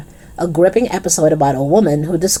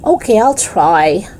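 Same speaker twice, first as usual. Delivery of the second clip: coughing; 4 semitones higher, slower than usual. Acted. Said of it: "coughed Dennis".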